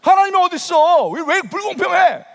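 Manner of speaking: acted angry protest. Young unbeliever fighting back feelings, crying out angrily. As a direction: cry out against God, play-acting desperation. Acted defiant cry at God.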